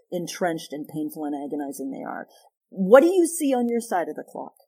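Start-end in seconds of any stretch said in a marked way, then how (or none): 2.7-4.5 inviting question. Shown as a demonstration. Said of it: "If we could stop and say".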